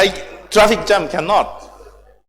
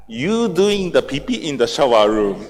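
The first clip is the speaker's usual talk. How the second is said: lightly voiced, lower-pitched father; imitating Father; 5 semitones lower than usual. Father accusing the speaker over the shower room, imitated low. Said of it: "father look at me and saying".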